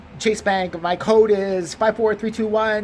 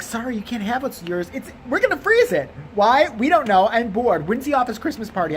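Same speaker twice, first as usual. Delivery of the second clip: higher, sing-along mocking clerk voice; mock a careless bank employee, pitched up; mock bank staff; 5 semitones higher than usual. Bank staff refusing a grieving customer, mocked.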